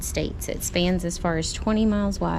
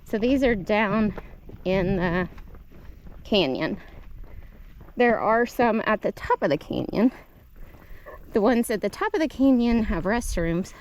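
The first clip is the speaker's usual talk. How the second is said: winded, talking between breaths. Real, not acted. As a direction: still catching her breath after the climb. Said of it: "Sorry, I'm still kinda out of breath".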